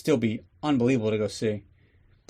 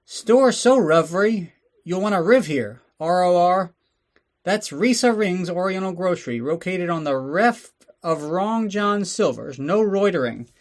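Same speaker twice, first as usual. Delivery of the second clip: high, loud, slow exaggerated East Asian accent pitch; mock Asian accent ad; 6 semitones higher, 3 dB louder than usual. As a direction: sell the store like a cartoonish shopkeeper in a stereotyped Asian accent. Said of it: "let's go take a little break for the advertisements".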